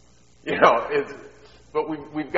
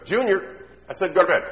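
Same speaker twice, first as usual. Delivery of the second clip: raised, higher mom voice calling out; insistent mom; 8 semitones higher, 7 dB louder than usual. Acted. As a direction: call out the bedtime order insistently. Mom repeats bedtime order.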